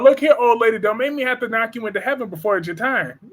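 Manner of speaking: mock tough talk, fast toward the end; lightly played clapback at an old lady; sassy threat. Telling off the soap villain in a mock threat. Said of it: "I'd be like".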